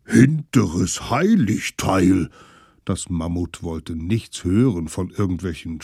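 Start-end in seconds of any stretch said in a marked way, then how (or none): 0.1-2.3 slow, louder outraged big creature; a mild mammoth oath; indignant mammoth. Acted.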